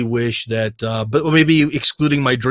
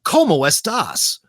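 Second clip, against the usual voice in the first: drawn-out, higher American take on Spanish; clumsy American-accented Spanish; 4 semitones higher, slower than usual. Retold or imitated. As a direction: labor through it in an American accent. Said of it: "Like, that's how he speaks".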